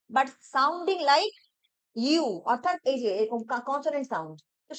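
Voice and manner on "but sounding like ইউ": slow explaining. Shown as a demonstration. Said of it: "ইউ কিন্তু vowel letter".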